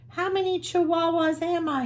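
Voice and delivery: a kitten dazzled by his reflection; wondering out loud. Acted. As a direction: ask it in wide-eyed wonder. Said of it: "he wondered out loud".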